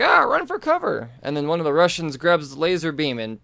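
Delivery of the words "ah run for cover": urgent cry. Retold or imitated. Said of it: "she's like".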